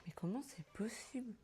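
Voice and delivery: whispered through a mouthful of cookie; mouth full. Real, not acted. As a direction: talk while chewing, mouth open. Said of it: "je parle la bouche ouverte". (la bouche pleine)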